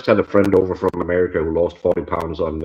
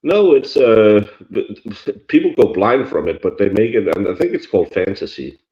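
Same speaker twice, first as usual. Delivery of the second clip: in a small room; 2 semitones higher than usual. Real, not acted. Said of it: "that's why I sound really roomy".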